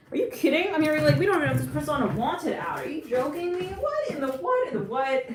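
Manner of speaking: incredulous what in the what; incredulous friends. Pretend. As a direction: play the outraged friends, pitch climbing. Friends' incredulous reaction acted.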